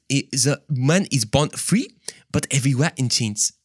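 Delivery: hesitant, put-on French accent; attempted French accent. Preacher retrying Rousseau's quote, shaky French accent. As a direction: have a doubtful go at a French accent. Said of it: "a French accent".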